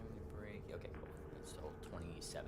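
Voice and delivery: whispering. Real, not acted. Whispered aside.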